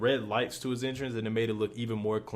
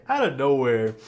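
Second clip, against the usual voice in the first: out of nowhere hit louder; louder emphatic repeat; 7 dB louder than usual. Real, not acted. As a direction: punch out of nowhere, louder this time.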